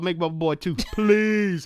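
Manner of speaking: drawn-out pleading please; mock begging. Podcast host begging Jake Gyllenhaal for a sequel, pleading. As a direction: beg the actor like a fan.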